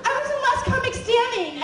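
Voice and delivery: high, panicked mock pleading; freaked out. Comedian pleading with raiding agents, comically freaked out. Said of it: "I, like, totally freaked out".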